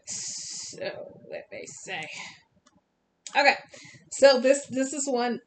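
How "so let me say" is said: words stretched by a yawn. Real, not acted. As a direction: talk through a yawn. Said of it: "Excuse my yawning".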